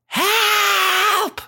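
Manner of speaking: very high, drawn-out squealed shout; long shrieked call in falsetto; mock cry for help. Shepherd boy shouts a trick alarm, long high cry. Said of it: "And he shouted".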